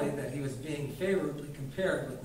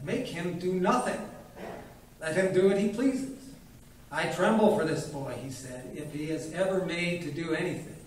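put-on old doctor lecturing; 3 semitones higher, 3 dB louder than usual. Old doctor lecturing the widow, pompous. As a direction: lecture the widow with grand self-importance.

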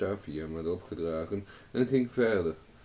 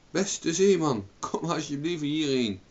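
high, raised hailing voice; calling out; 8 semitones higher, 5 dB louder than usual. A narrator's reading. Owen begs the sailor to come, calling out. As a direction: hail the distant boat, pitch up. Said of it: "riep Owen".

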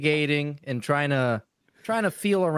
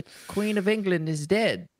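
playful put-on British accent; mock English accent; 2 semitones higher than usual. Podcaster mock-mourning the Queen, mock English accent. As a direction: announce it in a fake English accent. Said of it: "Why are we doing English accents?".

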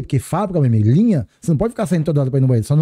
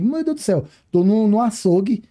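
mock alarm; 5 semitones higher than usual. Entering the scary operating floor.

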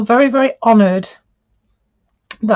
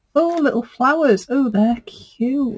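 delighted gasp; 4 semitones higher, slower than usual. Real, not acted. Gasping at fabric flowers.

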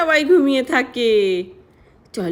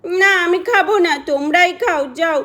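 put-on angry child; 3 semitones higher than usual. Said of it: "প্রিয়াটা তো দেখছি আজকে খুবই রেগে গেছে".

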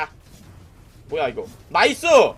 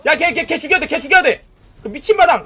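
loud high urgent call to kill; urgent yell; 6 semitones higher, 6 dB louder than usual. Real, not acted. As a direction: yell at the team to finish him. Urgent kill order in fight. (다급하게 외치는 지시)

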